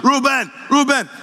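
imitating his dad calling his name. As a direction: call the son in from the backyard. Dad calling son from house.

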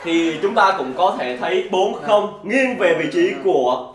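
laughing, slow result announcement; sports commentator. Acted. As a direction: announce the losers with glee. (giọng bình luận viên cười)

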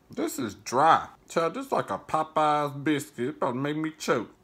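talking through a big bite; mouth full. Real, not acted. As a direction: chew and talk at once. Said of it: "It's too big of a bite".

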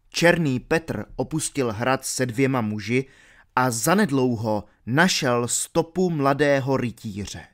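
ordinary talk

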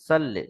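"সাল্লে" with a thin, light S; wrong sin sound. Shown as a demonstration. Teacher imitating the mistake, "সাল্লে" with thin sin S. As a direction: say "সাল্লে" with plain sin, not heavy sad. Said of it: "সিন থেকে".

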